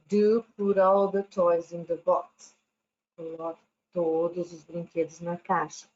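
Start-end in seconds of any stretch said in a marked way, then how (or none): 0.1-2.6 a touch of a stern mom, slightly louder; mother scolding kids over the mess, stern. Acted. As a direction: mom telling messy kids to tidy up, firmly. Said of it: "Aí a mãe chega e fala".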